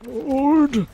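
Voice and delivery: full high shout to hold position. Real, not acted. Callout in team fight.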